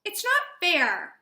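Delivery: high, loud, drawn-out protest; anguished shout. Acted. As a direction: shout it out, stretching the words. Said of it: "I shout, so loud".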